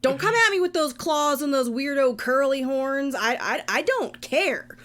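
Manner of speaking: fed up and ranting at the monster; indignant rant. Acted. Character ranting at beast.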